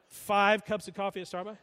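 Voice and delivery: incredulous wife. Retold or imitated. Wife questioning husband's coffee habit, incredulous. Wife reacts to his confession.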